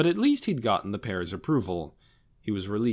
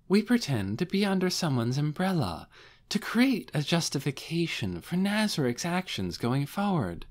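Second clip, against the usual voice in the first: a touch higher, smooth scheming woman; lightly voiced Albedo; 4 semitones higher than usual. Albedo explaining the scheme to the guardians, lightly higher. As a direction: lay out the plot sweetly.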